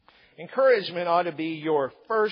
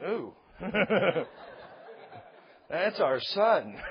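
mock parents' dismay, slowly and laughing; laughing through the quote; much slower than usual. Parents at the birth of their son, laughing and slow. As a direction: giggle through it as his parents.

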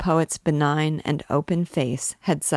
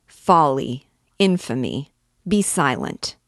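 loud, outraged barked exclamations; angry rebuke; 4 dB louder than usual. Acted. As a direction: cut him off in outrage. Priest rebukes Gringoire's scheme.

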